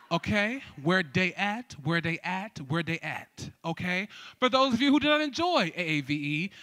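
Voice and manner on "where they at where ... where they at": low AAVE chant, "they" as "dey"; AAVE pronunciation. Shown as a demonstration. Host drills the crowd in AAVE. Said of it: "added a little A A V E".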